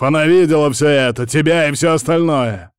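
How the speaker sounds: loud, high, urgent protest; outraged cry. A narrator's reading. Лев protesting that she saw everything, outraged cry. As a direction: keep crying out at full pitch. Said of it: "вскричал Лев".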